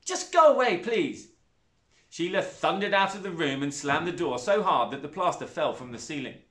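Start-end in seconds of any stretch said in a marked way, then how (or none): 0.0-1.3 put-on upset girl. A narrator's reading. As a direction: shout it, then soften. Zoe voiced in story.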